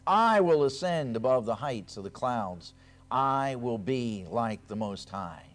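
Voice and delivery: declaiming Isaiah, rising and loud; forceful scripture reading. Acted. Preacher reading Isaiah to his congregation, declaiming. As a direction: proclaim Lucifer's fall with weight.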